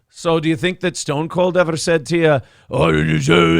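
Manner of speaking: mock Scottish accent doing an impression; Husey. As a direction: imitate a Scot's poor wrestler impression. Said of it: "he was doing a Stone Cold impression".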